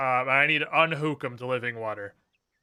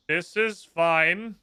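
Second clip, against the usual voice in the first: sarcastic; 3 semitones higher, much slower than usual. Real, not acted. Ironic reassurance during storm.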